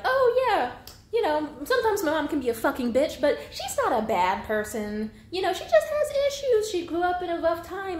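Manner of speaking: high, loud mock-casual kid voice brushing off abuse; a grown child defending an abusive mom, mocked in a high loud voice. Mocking how the children talk.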